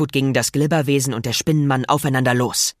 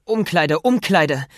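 urgent calling; 4 semitones higher, slower than usual. Acted. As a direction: call out urgently while running. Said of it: "rief Peter".

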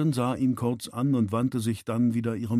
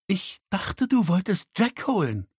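higher-pitched, snappish woman; irritated, raised-pitch reproach; angry hiss at her father; 8 semitones higher than usual. A narrator's reading. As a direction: snap it at him accusingly. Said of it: "fauchte sie".

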